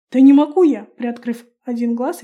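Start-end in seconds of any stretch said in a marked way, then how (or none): 0.1-0.9 loud irritated bark; snapping. A narrator's reading. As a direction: snap back, fed up. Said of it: "рявкнул парень". (громко рявкнуть с раздражением)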